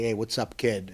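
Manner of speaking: put-on lightly done North End Boston accent, casual; a mild North End Boston accent, easy and friendly; North End Boston greeting. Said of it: "like in the North End when you would say".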